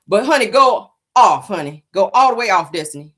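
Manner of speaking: high, loud sassy taunt. Real, not acted. Host mocking Destiny, sassy and loud. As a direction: egg her on with shady sass.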